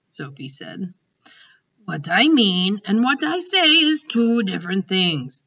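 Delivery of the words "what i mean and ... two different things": louder, higher and grand; grandly announced. Acted. The giant declaring to Sophie, grandly and louder. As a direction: proclaim it like a grand decree. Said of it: "announced rather grandly".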